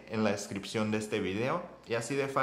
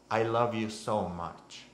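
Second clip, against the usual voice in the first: tender; slower than usual. Shown as a demonstration. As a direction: say it slowly, as if to a partner. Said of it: "Imagínense a su novia".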